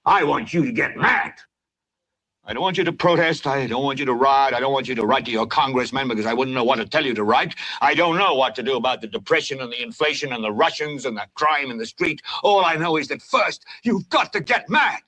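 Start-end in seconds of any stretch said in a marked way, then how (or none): none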